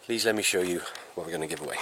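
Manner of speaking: quick, soft and panting; catching breath between words. Real, not acted. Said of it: "I'm panting in between speaking".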